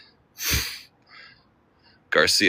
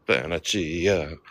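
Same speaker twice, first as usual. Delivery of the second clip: mock Italian accent; much slower than usual. Shown as a demonstration. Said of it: "Is that a good Italian accent?".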